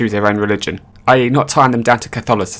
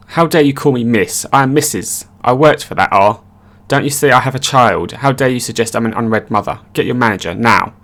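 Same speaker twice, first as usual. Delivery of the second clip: mock yelling. Entitled mother rants at the cashier, mock yelling. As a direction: play the outraged customer, half-hearted. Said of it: "uninterrupted yelling".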